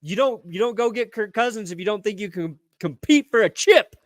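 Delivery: usual speaking voice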